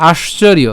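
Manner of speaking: আশ্চর্য as "aash-chor-iyo"; Sanskrit pronunciation. Shown as a demonstration. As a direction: sound the iyo ending of আশ্চর্য. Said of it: "যেটা উচ্চারণ করেছি আমরা". (আশ্চর্য, শেষে "ইয়" উচ্চারণে)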